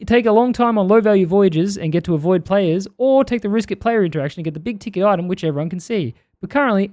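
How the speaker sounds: put-on unconvincing New Zealand accent; wobbly put-on Kiwi reading; bad Kiwi accent. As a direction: attempt a Kiwi accent and miss. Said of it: "this isn't a good Kiwi accent at all".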